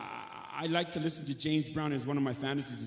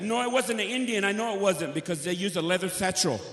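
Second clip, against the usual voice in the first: insisting; 6 semitones higher than usual. Retold or imitated. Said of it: "I said".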